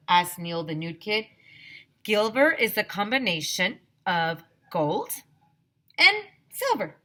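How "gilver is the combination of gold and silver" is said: rising to high, loud excitement; Mister Burke explaining Gilver, excited; excitedly. A narrator's reading. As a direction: burst with joy at the end. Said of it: "Mister Burke said excitedly".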